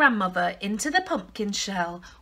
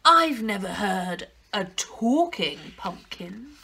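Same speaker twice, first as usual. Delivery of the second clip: wolf voice. Acted. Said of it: "said the wolf".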